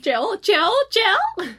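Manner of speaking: loud, high panicked calls; shouting. Retold or imitated. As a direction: scream the name in panic. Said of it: "she's like".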